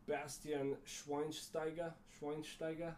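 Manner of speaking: slow mock American "Bastian Schweinsteiger"; "Schweinsteiger" with a flat American sh; imitating American German names. Mocking how Americans say German names, American-accented. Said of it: "they say".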